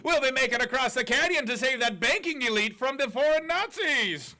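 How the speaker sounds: put-on over-the-top Indian accent; terrible Indian accent. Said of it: "That was a terrible Indian accent".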